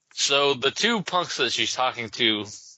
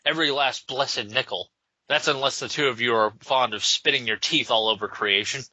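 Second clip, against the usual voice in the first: put-on Irish accent. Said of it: "sounds like a goddamn leprechaun".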